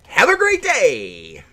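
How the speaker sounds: slow, drawn-out drill sergeant farewell; Marine Corps voice. Acted. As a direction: stretch it out like a drill instructor. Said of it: "your Marine Corps voice came out pretty good there".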